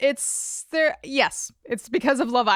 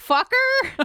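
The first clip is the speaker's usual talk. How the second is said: very high-pitched put-on talking-parrot voice; 12 semitones higher than usual. Joking about what parrots say, doing a parrot voice. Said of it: "good parrot voice?".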